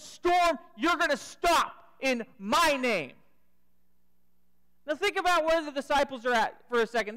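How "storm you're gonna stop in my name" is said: commanding rebuke. Retold or imitated. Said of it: "rebukes the storm ... and says".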